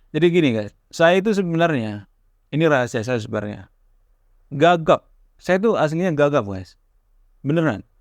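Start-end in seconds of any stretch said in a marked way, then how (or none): none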